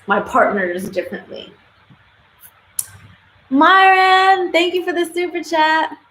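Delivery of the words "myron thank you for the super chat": high, loud, bright thanks to a viewer; thanking Myron for the super chat with a loud, high shout-out; excited shout-out. Real, not acted. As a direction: greet the donor with a loud, happy burst.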